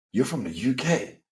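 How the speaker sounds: lightly mocked American accent; a rough attempt at an American accent; bad American accent. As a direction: imitate an American talking down, badly accented. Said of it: "Sorry about the terrible American accent".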